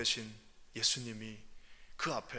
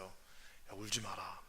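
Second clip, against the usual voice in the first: soft, lower, gentle comfort; tender Jesus; 9 semitones lower, 12 dB quieter, much slower than usual. Acted. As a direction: hush a weeping mother. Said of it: "그러면서 주님이 말씀하세요".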